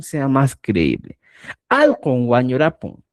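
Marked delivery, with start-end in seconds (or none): 1.7-3.0 Al con guañurapon, con la M enfatizadora bien marcada; quechua pronunciation. Shown as a demonstration. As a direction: pronounce Al con guañurapon clearly as a model. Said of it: "suena muy distinto cuando pones y dices". (pronunciación quechua de Al con guañurapon)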